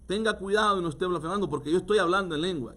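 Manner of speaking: hermana ofendida, rápida y algo aguda; indignant sister, fast. Retold or imitated. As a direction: hazle la hermana indignada que regaña rápido. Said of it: "me dijo". (hermana ofendida, hablando rápido)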